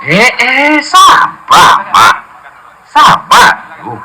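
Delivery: high, urgent plea to calm down; calming him down. Acted. Son urging his angry father to be patient, high urgent plea. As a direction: cut in high to stop the fight.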